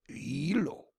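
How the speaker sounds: whispered. Shown as a demonstration. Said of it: "pronouncing Hawaiian place name".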